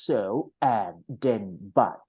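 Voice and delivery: "so", "and then", "but" each set apart by pauses; pausing on connectors. Shown as a demonstration. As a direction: demonstrate a break at each linking word, "so", "and then", "but". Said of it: "สังเกตนะ พี่จะวัก". (เว้นวรรคที่ "so", "and then", "but")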